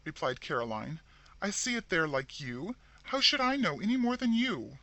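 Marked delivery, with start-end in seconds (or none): 1.4-4.8 high, loud exasperated retort. A narrator's reading. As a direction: throw it back at her. Annoyed sister retorting.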